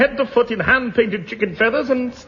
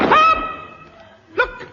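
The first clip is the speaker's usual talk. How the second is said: shouted stop. Acted. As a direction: yell it to halt everyone at once. Sudden halt in the race.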